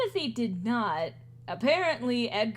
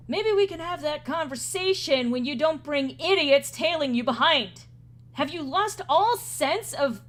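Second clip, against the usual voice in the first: mildly irate, raised voice, heavy on the words; annoyed scolding; 4 semitones higher, 4 dB louder than usual. Acted. Edgar berates Jimothy for bringing others along, annoyed scolding. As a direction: scold them with mounting exasperation.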